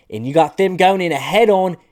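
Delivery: high, loud, hammed-up German accent; failed German accent. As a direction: proclaim it in a badly faked German accent. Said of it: "That's not even a fucking German accent".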